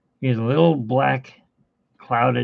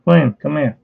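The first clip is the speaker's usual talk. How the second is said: calling the cat; 3 semitones higher, 8 dB louder than usual. Real, not acted.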